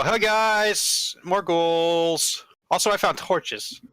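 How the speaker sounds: calling to companions. Acted. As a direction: lightly call out to the party in character. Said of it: "I'm going to go".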